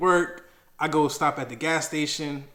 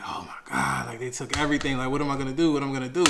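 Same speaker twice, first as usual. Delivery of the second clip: exaggerated despair; faster than usual. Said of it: "I'm exaggerating the situation".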